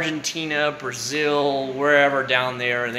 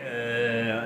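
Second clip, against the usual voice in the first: zombie groan; 3 semitones lower, 5 dB quieter than usual. Retold or imitated. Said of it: "I'm gonna be a flippin' zombie".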